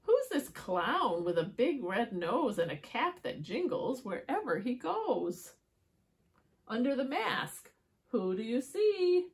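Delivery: singsong rhyming story narration; riddle for children. A narrator's reading. Asking children who is under the mask, playful storytelling. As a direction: build up to a teasing question.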